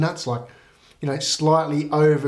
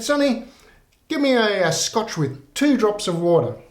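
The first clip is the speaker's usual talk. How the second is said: put-on higher, creaky old granny ordering a drink; old lady voice; 6 semitones higher than usual. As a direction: play the sweet old birthday lady, pitched up.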